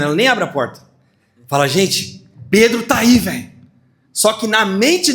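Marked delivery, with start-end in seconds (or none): 1.7-3.5 put-on girl tells the praying church; excited announcement. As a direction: blurt it out to the room. Girl runs to tell church.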